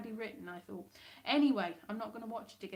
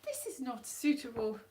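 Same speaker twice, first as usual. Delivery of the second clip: mock disbelief; 3 semitones higher than usual. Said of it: "you're just like".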